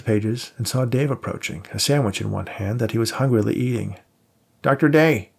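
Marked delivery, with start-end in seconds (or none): 4.6-5.3 surprised, through a mouthful; mouth full. Acted. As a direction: talk around a bite of sandwich. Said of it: "he said with a mouthful of tuna salad and a bit of surprise".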